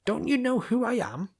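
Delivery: high, loud exasperated yell; exasperated shout. Acted. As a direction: yell it, at the end of your patience. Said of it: "I shouted in exasperation".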